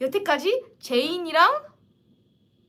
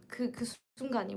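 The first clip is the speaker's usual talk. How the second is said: softly whispered aside; hushed, fond whisper; 2 semitones lower, 8 dB quieter, much faster than usual. Real, not acted. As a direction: whisper it like a treasured secret. Savoring favorite moment.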